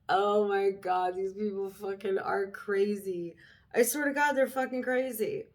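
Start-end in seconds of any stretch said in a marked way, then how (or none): 0.1-3.4 a conspiratorial whisper to the camera; whispered aside. Real, not acted. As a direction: whisper it under your breath. Aside to the viewers.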